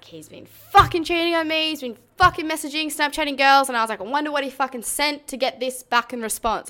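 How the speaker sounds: high-pitched indignant rant; worked-up, aggrieved, pitched high; livid retelling. Retold or imitated. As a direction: fume as you retell the accusation. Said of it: "absolutely livid".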